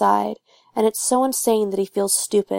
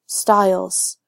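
low near-growl. A narrator's reading. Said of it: "his voice is lower now, almost a growl".

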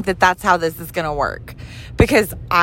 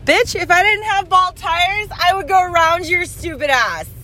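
road rage yelling; 11 semitones higher than usual. Real, not acted. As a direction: curse out the car ahead, full of rage. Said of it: "I hope they know that I'm fucking rage-filled right now".

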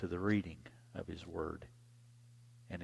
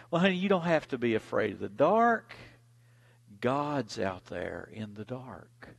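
comforting mama. Retold or imitated.

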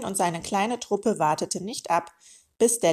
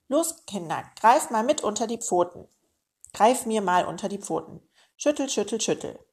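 eager urging; 3 semitones higher, 3 dB louder than usual. Acted. Uncle urges kids to shake egg.

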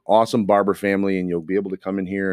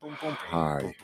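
impression of Rick; much slower than usual. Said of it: "now I gotta do an impression of you now".

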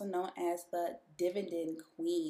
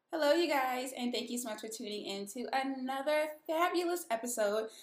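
echoey room; 6 semitones higher, 3 dB louder than usual. Real, not acted. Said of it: "I know you guys can hear that echo in here".

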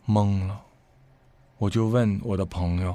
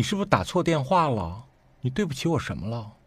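calm, not angry; 4 semitones higher than usual. Retold or imitated. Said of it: "我就是这个口气，我一点儿都没发怒".

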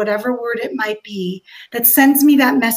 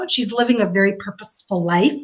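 choked-up whisper; 3 semitones lower than usual. Real, not acted. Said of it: "I'm gonna try not to cry".

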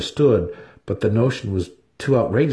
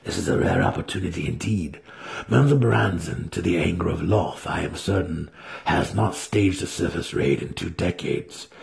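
Alton urging; 2 semitones lower, 3 dB quieter than usual. Acted. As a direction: press him quietly to go.

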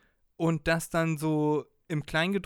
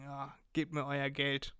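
put-on coaxing old people; 4 dB quieter than usual. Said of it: "wie der so alte Leute ansprechen wollte".

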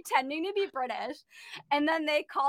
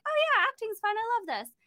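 bright-eyed, higher-pitched quoted excitement; naive enthusiasm; 8 semitones higher than usual. Retold or imitated. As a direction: act out a newcomer's breezy delight. Quoting own naive enthusiasm.

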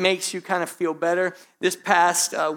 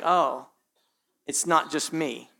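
low, soft inner murmur, relieved; quiet relief; 5 semitones lower, 6 dB quieter, slower than usual. Retold or imitated. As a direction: mumble it to yourself, relieved you're not alone. Quiet inner relief, pastor mimics.

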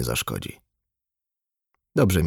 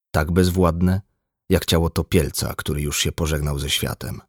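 ordinary delivery, nothing marked

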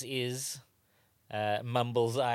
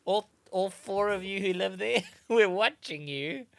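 mock call-out; 8 semitones higher, 5 dB louder than usual. Host playfully warns the handful of locals, mock call-out. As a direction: call out to them in mock warning.

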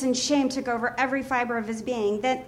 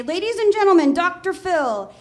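announcer intro; 5 semitones higher than usual. Retold or imitated.

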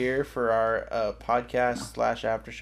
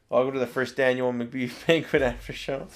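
laughing through words. Real, not acted. Restart interrupted by giggling.

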